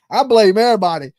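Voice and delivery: imagined broke dasher ranting fast; mock rant. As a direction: rattle it off in a hammed-up huff. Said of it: "I'd be like".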